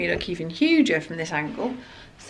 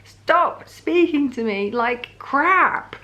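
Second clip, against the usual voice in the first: tearful outburst; 6 semitones higher, much slower than usual. Retold or imitated. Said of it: "I just burst into tears".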